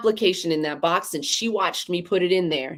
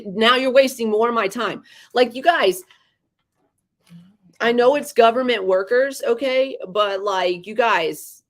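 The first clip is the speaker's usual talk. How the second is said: raised, higher-pitched frustrated venting; fed-up rant, pitch up; exasperated rant; 5 semitones higher than usual. Real, not acted. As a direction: vent at the clerks, voice climbing. Ranting about government workers.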